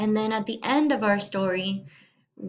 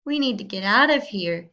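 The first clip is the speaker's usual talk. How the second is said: urgent; 4 dB louder than usual. Acted. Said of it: "said Chicken Little".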